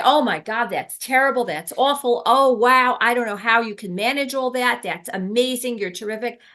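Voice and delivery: gushing, loud and high, mock alarm; mock gushing to a hysterical patient; overexcited gushing. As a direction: overreact on purpose, gushing. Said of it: "I didn't say".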